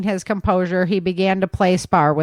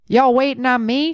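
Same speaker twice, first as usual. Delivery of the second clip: southern bellow; 6 semitones higher than usual. Acted. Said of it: "bellowed in his southern drawl".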